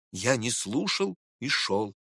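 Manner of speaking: plain reading voice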